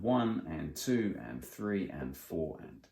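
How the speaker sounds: one and two and, steady and even; counting in fours with ands. Shown as a demonstration. Teacher shows the right way to count, evenly. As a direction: say the ands between the beats. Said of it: "What we want to do instead".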